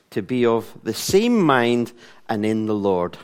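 slow, measured reading with long pauses; solemn public Bible reading; scripture reading. Acted. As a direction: read it out deliberately, phrase by phrase. Reads scripture aloud.

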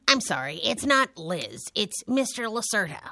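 Mister Lacerda stated flatly and firmly, falling at the end; firm correction. Acted. Corrects friend on her title.

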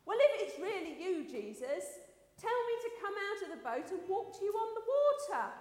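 lightly acted call across distance. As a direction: call it out as a storyteller would. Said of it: "So Peter called out".

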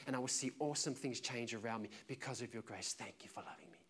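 intimate spoken prayer to the Father; a gentle, earnest personal prayer; private prayer voice. Shown as a demonstration. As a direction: pray aloud as if alone. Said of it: "an example of what it looks like when I'm alone".

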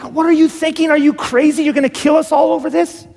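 high-pitched, frantic outburst without real volume; mock hysterical yell. Abigail imagined confronting David, mock hysterical yell. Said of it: "run out hysterically to David and yell".

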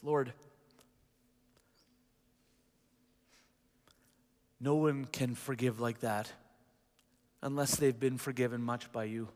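closing prayer. Real, not acted.

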